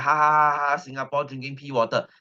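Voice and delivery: a hammed-up sneering cackle then the taunt; mocking laughter. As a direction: jeer at the neighbours with a put-on laugh. Mocking Malaysians laughing at Singapore.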